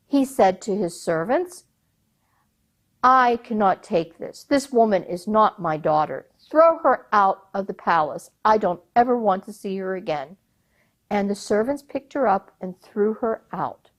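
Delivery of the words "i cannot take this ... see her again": furious. Acted. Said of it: "The emir was furious".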